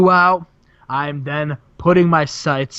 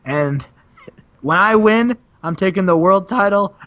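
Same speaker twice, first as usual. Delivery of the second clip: gloating Sting; 3 semitones higher than usual. Retold or imitated. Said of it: "Sting's like".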